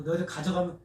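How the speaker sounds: mild mock threat, rising at the end; lightly acted scolding warning; retold threat. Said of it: "엄포를 놨어요".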